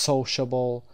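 SO in "sociable" stressed; stress on first syllable. Shown as a demonstration. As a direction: lean on the opening syllable of "sociable", slowly.

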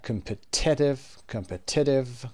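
slow "competitive" with PET stressed. Shown as a demonstration. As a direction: hit the second syllable of "competitive". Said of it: "قسمت تی اول".

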